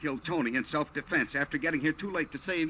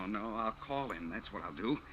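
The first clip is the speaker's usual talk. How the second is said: gangster voice; 7 semitones lower, 9 dB quieter than usual. Acted. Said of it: "they think out loud with the yes and see".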